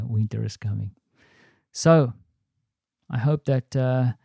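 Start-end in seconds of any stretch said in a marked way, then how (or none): 0.0-0.9 low, quiet and foreboding; ominous. Acted. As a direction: let it hang like a warning. Repeat, lower and quieter.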